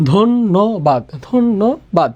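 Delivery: ধন্যবাদ said as dhon-no-bad, with a held double n; doubled n pronunciation. Shown as a demonstration. Teacher shows the jofola rule to students, ধন্যবাদ with doubled n. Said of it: "জফলা থাকার কারণে এখানে নটা দিতে হবে".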